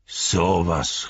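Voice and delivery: drawn-out, marvelling exclamation; astonished exclamation. A narrator's reading. Farmer recognising a returned hobbit, astonished exclamation. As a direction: marvel at who it is. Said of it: "rief er".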